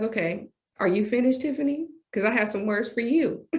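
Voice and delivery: a touch of a patient parent, dry and knowing; voicing God. God answering the speaker after her tantrum, patient and dry. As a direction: play God waiting her out. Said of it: "he was like".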